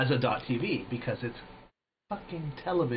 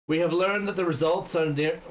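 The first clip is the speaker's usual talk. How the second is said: lightly put-on British accent, raised pitch; 4 semitones higher than usual. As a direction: read the general with a touch of British. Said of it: "doing this in a British accent".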